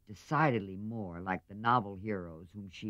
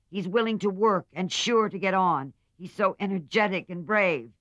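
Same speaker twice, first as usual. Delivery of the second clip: much higher, louder, spirited defense; a girl proudly defending her sweetheart; loud, high, indignant young woman; defiant Meg; 9 semitones higher, 8 dB louder than usual. A narrator's reading.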